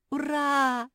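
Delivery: high, loud cheer of joy; joyful yell. Acted. Both labradors cheering at forgiveness, joyful yell. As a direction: shout hurrah with delight. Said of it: "завопили обе лабрадорихи".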